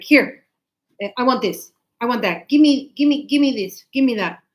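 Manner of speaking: loud, demanding give me give me; pushy rude customer. Retold or imitated. Shop worker imitating rude customers, loud and demanding. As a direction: bark orders like a rude shopper. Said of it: "very pushy and very rude".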